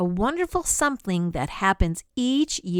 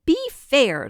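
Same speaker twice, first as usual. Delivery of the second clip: pleading whisper, higher; begging; 6 semitones higher, 5 dB louder than usual. Acted. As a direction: beg with a lump in the throat. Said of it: "Thidwick begged with a lump".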